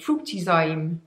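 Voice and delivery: Fruitizyme drawn out in a light, unnamed foreign accent; a hint of a silly accent on Fruitizyme; playful put-on accent. Shown as a demonstration. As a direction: say Fruitizyme with a slight mock exotic accent. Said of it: "I always want to say this in an accent".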